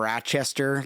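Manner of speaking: put-on Rochester in an upstate New York accent. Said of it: "like that upstate".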